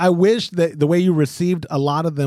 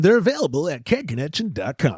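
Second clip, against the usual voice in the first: put-on infomercial announcer voice. You tell listeners where the really nice kegs are available, in an infomercial voice. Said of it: "infomercial voice again".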